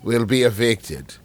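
put-on a light, half-hearted Australian accent; a faint Australian twang, ominous; mock Australian accent. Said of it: "that's your Australian accent".

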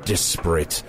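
low, slow archaic wizard oration; grandiose wizard. Acted. Wizard declaiming on his terrible dreams to the host, grandiose. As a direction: intone it slowly and low like an old-world sorcerer.

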